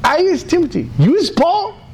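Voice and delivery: high, hopeful lift; eager question. Retold or imitated. Friend proudly naming their roles, high eager voice. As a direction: quote him up high and eager. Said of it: "He says".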